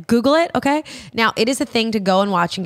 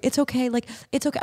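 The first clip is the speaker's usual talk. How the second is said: softer imitation of clumsy comforting; mock reassuring man; 5 semitones higher, 5 dB quieter than usual. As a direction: soothe like a man trying to help. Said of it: "it's so funny when men try to, like, help you".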